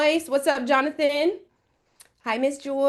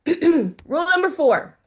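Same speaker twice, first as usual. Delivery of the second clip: slow, louder, each word set apart; grand announcement; 4 semitones higher, 4 dB louder than usual. Real, not acted. Teacher announces the final rule to the class, slowly and grandly. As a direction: announce the last rule with ceremony.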